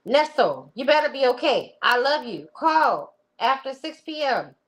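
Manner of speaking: high, insistent woman's impression; hammed-up fretting lover; worried girlfriend. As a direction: demand he be okay, pitched well up. Acting out Sonia's anxious text.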